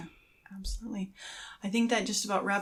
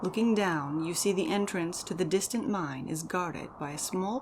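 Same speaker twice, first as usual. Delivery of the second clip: dramatic story narration. Acted. Host narrating the elf's adventure to listeners, dramatic and measured. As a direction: read it like an epic tale.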